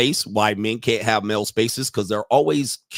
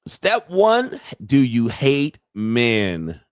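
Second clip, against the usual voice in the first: slow deadpan repeat; much slower than usual. Shown as a demonstration. Host repeating the clip line slowly and deadpan. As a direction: Step one rises, then "do you hate men?" dragged out slowly. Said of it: "repeats clip's line".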